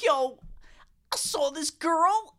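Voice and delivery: high, slow with a long pause; Paul impression. Imitating Paul talking with weird pauses. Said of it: "he would take these weird pauses".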